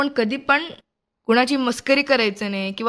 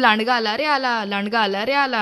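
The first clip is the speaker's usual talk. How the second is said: mild storytelling shout. Acted. Young storyteller voices Ramu's false alarm to the farmers, mild shout. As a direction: call out singsong, only half shouting. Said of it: "तो ओरडायचा असंच".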